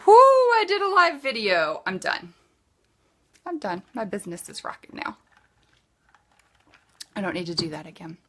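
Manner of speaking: mimicking a smug one-time seller, rushing off; mock smug celebration. Mocking lazy sellers who quit after one live video, gloating.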